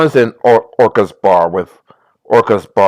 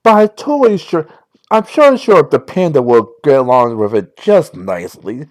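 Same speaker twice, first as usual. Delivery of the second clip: put-on Valley Girl voice. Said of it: "my Valley Girl voice".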